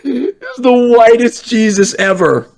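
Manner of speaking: mock solemn voice. Mocking the white Jesus picture.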